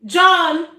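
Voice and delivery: loud call for help. Real, not acted. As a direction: call him from the next room. Calling for someone to help.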